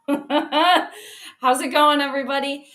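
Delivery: a slow, playful attempt at an English accent on How's it going; English accent try. Greeting viewers in a mock English accent. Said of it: "I'm going to try to do the English accent today".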